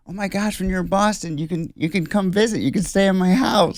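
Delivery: high, gushing imitation of a superfan; mock an overeager fan's invitation; very high-pitched retold gushing; Hannah. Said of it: "And she's like".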